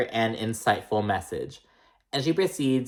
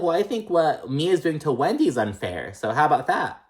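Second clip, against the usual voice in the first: higher, pert mock voice; snippy comeback; 5 semitones higher than usual. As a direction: fire it back with attitude. Imitating Ashley's comeback.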